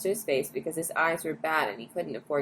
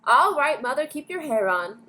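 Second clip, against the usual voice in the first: loud and high, impatient retort; spoiled girl shouting at her mother; 7 semitones higher, 5 dB louder than usual. A narrator's reading. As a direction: snap back at mother. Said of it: "Miss Beauregard shouted".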